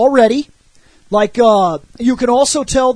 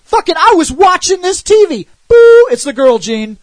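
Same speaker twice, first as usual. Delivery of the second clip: higher, louder mock-startled line; mock alarm; 6 semitones higher, 7 dB louder than usual. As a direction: blurt it like a lazy alarm. Redoes the telepath's line.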